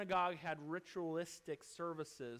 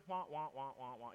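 Charlie Brown teacher; 2 semitones lower than usual. Retold or imitated. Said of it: "kinda like Charlie Brown, his teacher".

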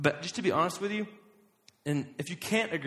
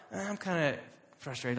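softer, half-hearted grumble; mildly frustrated; 5 dB quieter than usual. Acted. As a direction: play down the frustration, barely bothered. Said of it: "So not just like".

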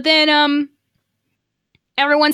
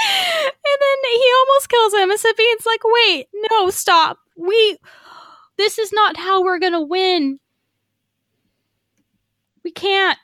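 laughing; 9 semitones higher than usual. Real, not acted.

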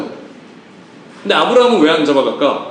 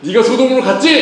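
raised-pitch accusing jab; mock scolding; 5 semitones higher than usual. Uncle confronting the nephew who chose Sodom, mock scolding. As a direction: scold as if about to hit, play-acted. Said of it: "한 대 때리려고?".

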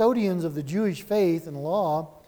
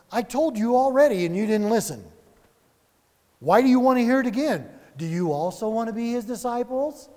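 raised, louder sarcastic retort; a cheeky first century jab; mocking jab; 5 semitones higher, 3 dB louder than usual. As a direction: throw it back at them with a smirk. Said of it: "I took a little liberty there".

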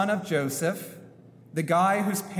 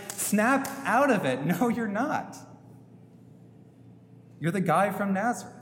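mock incredulous retort; 3 semitones higher than usual. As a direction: scoff at him as if he has lost his mind, then trail off. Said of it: "a normal retort might be something like".

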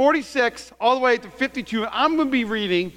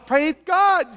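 showy praise; 6 semitones higher than usual. Acted. Acts out churchgoer's showy praise.

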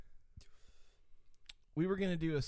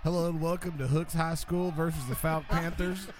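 sports announcer. Pretend. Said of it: "you narrating it as, like, an announcer".

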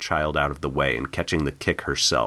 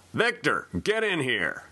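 yelling for son; 11 semitones higher than usual. Acted. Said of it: "and then yelled".

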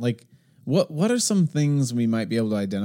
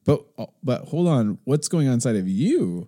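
higher, heated retold protest; mock exasperated self; 6 semitones higher than usual. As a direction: push back sharply. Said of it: "I'm like".

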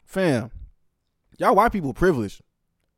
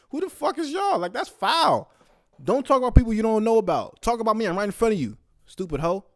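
emotional rant; 5 semitones higher than usual. Real, not acted. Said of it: "Sorry, that made me emotional".

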